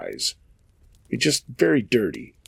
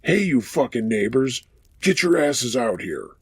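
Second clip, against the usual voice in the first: put-on drunk hillbilly; 2 semitones higher than usual. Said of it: "with this screechy voice".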